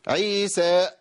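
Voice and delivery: "عيسى" with the final alif cut off by a glottal catch; نطق خاطئ للمد. Shown as a demonstration. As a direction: end "عيسى" abruptly on a hamza. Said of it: "ما ينفعش". (مد "عيسى" مقطوع بهمزة في آخره)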